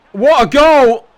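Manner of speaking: huge high shout of joy; goal celebration. Real, not acted. Player cheering his own goal, a huge excited shout. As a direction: yell it out as the ball goes in.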